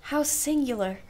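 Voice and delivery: a high, arch "Indeed"; dry irony. Acted. Aunt meets her niece's dance boasts with arch mock surprise. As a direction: lift it with mock astonishment.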